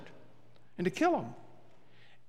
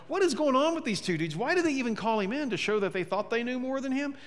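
higher, incredulous rant at the TV; exasperated; 6 semitones higher than usual. Retold or imitated. Pastor ranting to his wife at the show, exasperated. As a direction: vent at the screen in disbelief. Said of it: "I'm getting mad as I'm watching it".

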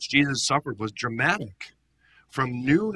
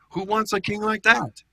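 scornful question; 10 semitones higher, 5 dB louder than usual. Acted. Rhetorical scorn from the pulpit.

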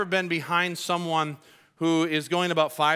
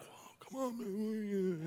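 annoyed driver; 4 semitones higher, 13 dB quieter, slower than usual. Retold or imitated. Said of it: "you can tell they're like".

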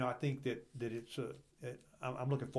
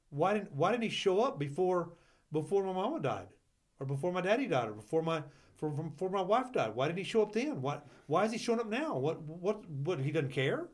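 grieving doubter; 4 semitones higher than usual. Retold or imitated. Voicing a grieving doubter's questions.

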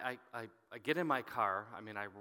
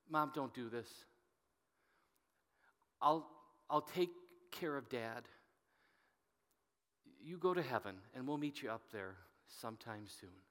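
soft and choked, holding back tears; heartfelt plea, close to crying; held-back tears; 3 dB quieter than usual. Retold or imitated. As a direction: say it as the plea he never made, fighting tears. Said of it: "I'm gonna say this with passion".

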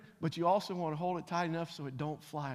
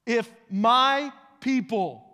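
preaching; 7 semitones higher, 11 dB louder, slower than usual. Acted. Preaching rises again.

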